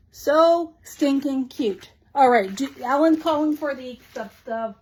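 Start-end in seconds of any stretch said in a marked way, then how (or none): 0.1-1.9 drawn-out gush. Real, not acted. Gushing over new stickers.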